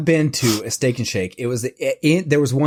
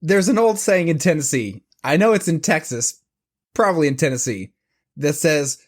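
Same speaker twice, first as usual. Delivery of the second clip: George W. Bush impression; 3 semitones higher than usual. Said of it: "as the wonderful George W. Bush once said".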